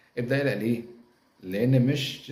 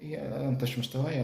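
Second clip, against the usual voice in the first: mock scornful snob; 5 semitones higher than usual. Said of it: "خلاص واحد عمل معصية".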